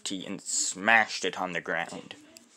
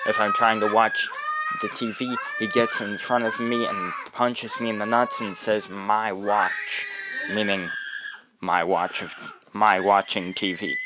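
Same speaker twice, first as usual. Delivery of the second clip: raised, exasperated ranting; loud complaint; 4 dB louder than usual. Real, not acted. Teen venting about cousin punching him, loud exasperated rant. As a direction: vent it loudly.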